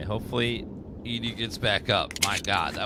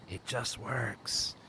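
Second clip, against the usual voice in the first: imitating Todd Howard; 8 dB quieter, much slower than usual. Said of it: "you hear him go".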